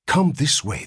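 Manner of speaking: nurse's call. A narrator's reading. Nurse leading father down hall.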